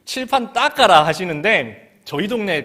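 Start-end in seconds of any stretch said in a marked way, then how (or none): 0.0-1.0 high, loud Gyeongsang 칠판 닦아라; Gyeongsang dialect. Retold or imitated. Teacher ordering the board wiped, loud Gyeongsang. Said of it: "경상도 말로".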